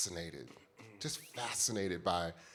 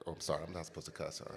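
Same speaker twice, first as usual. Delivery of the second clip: laughing; 5 semitones lower, 7 dB quieter, much faster than usual. Real, not acted. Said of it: "laughing apology aside".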